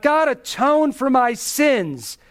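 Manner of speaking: mildly imploring, drawing the words out; pleading. Acted. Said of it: "pleading with God".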